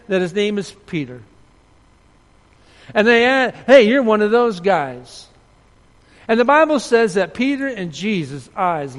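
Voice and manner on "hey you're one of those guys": loud, drawn-out shout across a crowd; single someone out loudly, acting the accuser; raised-voice finger-pointing in a retold scene; calling out an accusation. Accusers calling out Peter in retold story.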